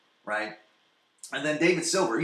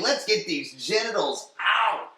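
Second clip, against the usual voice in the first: higher, louder and slow, hammed-up; loud mock quote; 11 semitones higher, 5 dB louder, slower than usual. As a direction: belt it out slowly for laughs. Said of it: "they're just like".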